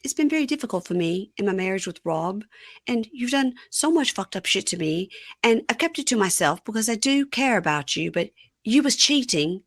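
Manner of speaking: mildly dramatized reproach; acted confrontation. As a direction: voice her airing grievances to her husband. Retelling Sophie's confrontation.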